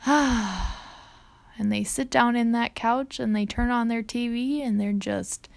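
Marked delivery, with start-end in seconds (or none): 0.1-0.8 a sigh of relief, lightly voiced; relieved ah. Husband home from work, a light relieved ah. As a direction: settle into the couch with a contented ah. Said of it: "they're like".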